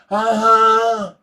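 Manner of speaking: put-on high, loud, eager kid noise; little kid's reply. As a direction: imitate an eager toddler saying yes. Voicing the little boy's answer.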